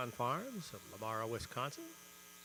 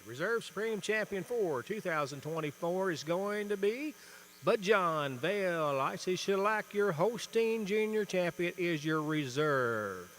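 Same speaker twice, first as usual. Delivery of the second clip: winner announcement; 4 semitones higher, 6 dB louder than usual. Real, not acted. Announcing the reserve champion winner.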